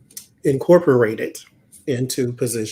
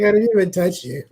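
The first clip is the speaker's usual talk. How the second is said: put-on whiny defensive kid; 6 semitones higher, faster than usual. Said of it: "It's like".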